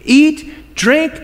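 smug rich man. Acted. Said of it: "Then he said to himself".

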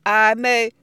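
responding. Acted. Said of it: "the class responds".

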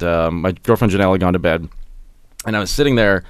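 usual speaking voice

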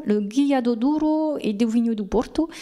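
« le Guia do Douro et do Vinho do Porto » prononcé à la portugaise par un francophone; titre portugais, accent français. Real, not acted. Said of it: "excusez mon accent". (titre portugais lu avec application, accent français)

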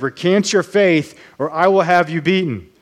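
a touch of the angry interrogator's shout; mock yell. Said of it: "he started yelling louder".

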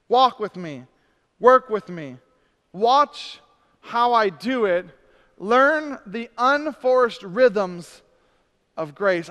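each phrase slow and deliberate; slow and emphatic. Shown as a demonstration. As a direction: lean on every command. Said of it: "slow emphatic reading".

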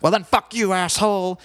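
imitating a singer screaming back at the crowd; mock drunk rocker yell. Singer cursing at a heckler from the stage, mock yelling. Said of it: "he's like".

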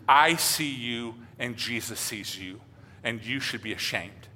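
a hint of an old woman's reproach, drawn out; older woman voice. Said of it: "kind of an older woman voice".

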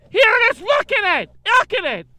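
loud, high mock pride; mock proud showing. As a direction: show it off like a trophy, loud. Showing off his old phone.

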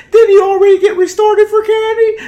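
very high, loud accusing shout; recruit shouting. Retold or imitated. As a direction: call him out from the crowd.

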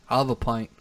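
mock English accent, "pint" rounded towards "point"; lightly hammed-up English accent; put-on English accent. Shown as a demonstration. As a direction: order like a Brit, vowel rounded in "pint". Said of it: "a pint's going to be in an accent".

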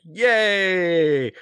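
high, loud yay; mock kid cheer. Kid unwrapping a present, a mock happy cheer. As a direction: cheer like a delighted child.

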